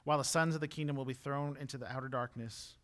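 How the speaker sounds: measured, subdued Bible reading; scripture reading. A narrator's reading. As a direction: read the passage evenly and softly. Reads scripture aloud.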